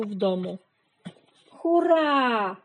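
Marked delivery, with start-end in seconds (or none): 1.5-2.6 loud, high hurrah; joyful cheer. A narrator's reading. Animals cheering the rescued baby swallows, joyful shout. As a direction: shout it out in triumph. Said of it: "radosny okrzyk".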